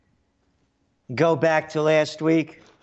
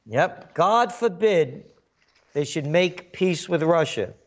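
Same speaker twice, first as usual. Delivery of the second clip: sarcastic; 3 semitones higher than usual. Acted. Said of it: "being facetious".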